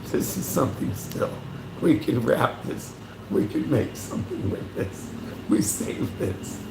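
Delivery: hushed, secretive half-whisper, slowing at the end; conspiratorial whisper. Retold or imitated. Showing how Filipinos save scraps, hushed whisper. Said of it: "We say".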